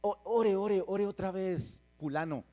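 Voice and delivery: pleading friends. Retold or imitated. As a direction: friends eagerly urging another prayer. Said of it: "algunos de ustedes dicen".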